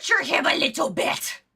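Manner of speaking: squeaky-high quoted voice, straining; hammed-up high character voice; Little Karibo impression. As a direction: pitch way up to mimic a quote. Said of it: "just like Little Karibo said".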